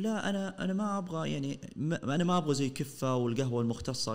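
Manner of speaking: leicht höher gespielter Kunde, der protestiert; imitierter naiver Kunde. Retold or imitated. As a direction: den naiven Gründer etwas höher nachmachen. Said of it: "واحد يقول".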